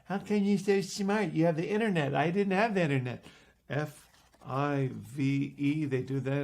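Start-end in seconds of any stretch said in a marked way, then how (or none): 0.1-3.2 higher-pitched exasperated protest; mock frustration. Frustrated magician protesting to kids who outspell him, exasperated. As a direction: complain like a put-out sore loser. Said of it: "I'm getting more frustrated".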